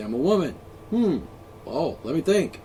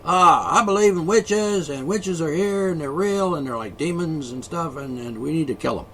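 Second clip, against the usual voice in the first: mock witch-hunter. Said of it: "sort of like back in the old days".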